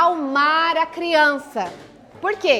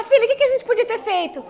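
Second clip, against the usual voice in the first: higher, lightly voiced coaxing question to a daughter; gentle parent question; 6 semitones higher, faster than usual. Shown as a demonstration. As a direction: invite her to find the answer herself. (mãe perguntando à filha, com voz mais aguda e convidativa)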